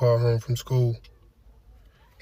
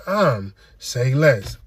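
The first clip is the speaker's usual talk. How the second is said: slow say less; much slower than usual. Acted. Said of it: "catchphrase said slowly".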